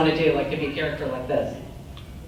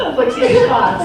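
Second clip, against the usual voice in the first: squeaky high cartoon voice; giggly high character voice; 13 semitones higher, 9 dB louder, slower than usual. Doing cartoon voices on request.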